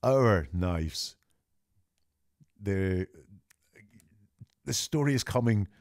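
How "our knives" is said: "Our" leads the phrase; stress on our. Shown as a demonstration. Analyst highlighting shared ownership, stressing "Our". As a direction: lean on "Our" before knives. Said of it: "there's jointness here".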